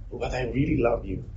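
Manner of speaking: hammed-up insistence on affection; mock protestation of love. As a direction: declare love as a hollow excuse. Mimics insincere professed love while refusing.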